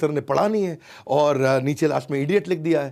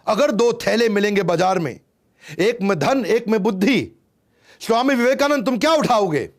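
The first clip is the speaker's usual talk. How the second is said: higher, louder challenge; taunting professor; 7 semitones higher, 7 dB louder than usual. Retold or imitated. Professor tests the student before class, loud and high. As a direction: set the trap triumphantly.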